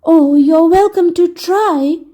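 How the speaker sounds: slow, gloomy reply; a hint of weary gloom. Humpty Dumpty to Dick, mildly gloomy. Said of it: "said Prince Humpty Dumpty gloomily".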